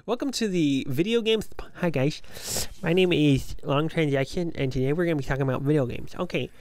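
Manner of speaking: hyped YouTuber intro voice; gamer voice. Pretend. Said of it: "why am I doing a gamer voice".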